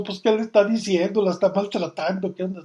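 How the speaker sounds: a manager barging in, alarmed; suspicious manager. Retold or imitated. (gerente alarmado, más fuerte y agudo)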